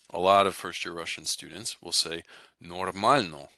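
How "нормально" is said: "normalno" said nor-MAL-noh; learner's "normalno" with both O's fully rounded; mispronounced, full O's. Retold or imitated. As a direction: say "normalno" with a full O at start and end. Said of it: "They just pronounce all the O's fully".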